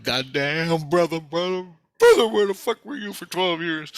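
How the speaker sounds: high, loud cry of exasperation; worked-up, incredulous retold outburst; exasperated outburst. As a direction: demand an explanation, pitch climbing high. Retold outburst at long-absent protector.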